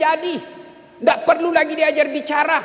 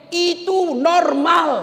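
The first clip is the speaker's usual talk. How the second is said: emphatic shout; 2 semitones higher, much slower than usual. Acted. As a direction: land it hard and slow. Preacher insists nagging is normal.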